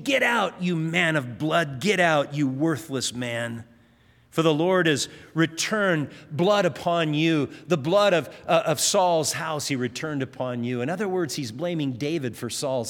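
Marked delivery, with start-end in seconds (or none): 0.0-10.8 retold cursing. Shimei cursing David as he flees, mild mock anger. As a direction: hurl it like a half-acted curse. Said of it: "Shimei is cursing David".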